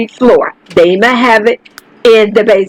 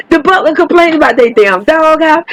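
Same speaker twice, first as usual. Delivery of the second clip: laughing; 5 semitones higher than usual. Real, not acted. Laughing at butler's complaint.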